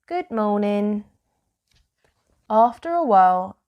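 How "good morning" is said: smiling reply. A narrator's reading. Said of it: "Elmer smiled and said".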